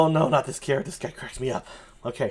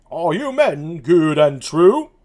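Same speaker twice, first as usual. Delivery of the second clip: put-on Dogberry British accent; 2 semitones higher, 3 dB louder, slower than usual. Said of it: "that's Dogberry".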